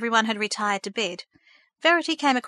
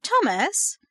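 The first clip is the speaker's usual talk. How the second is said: higher, sharp warning call of his name; sharp rebuke; 8 semitones higher than usual. A narrator's reading. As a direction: cut him off with a rebuke. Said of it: "rebuked Kara sharply".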